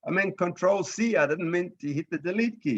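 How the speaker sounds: hammed-up alarm over a lost paragraph; panicky user. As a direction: play the flustered user who hit delete. Teacher acts out a panicking user.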